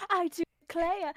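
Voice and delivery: Southern accent. Shown as a demonstration. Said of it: "running into a problem with the Southern one".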